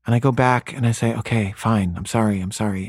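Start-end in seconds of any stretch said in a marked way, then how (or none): 1.2-2.9 mild, subdued apology, trailing down; apologetic. Retold or imitated. Parent gives in to crying daughter, apologetic.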